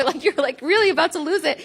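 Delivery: laughing at the thought of losing it; a real laugh through the words; amused at her own frazzle. Real, not acted.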